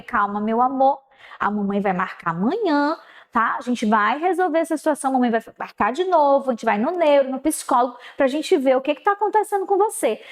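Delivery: put-on gently calm a crying child; comforting mother.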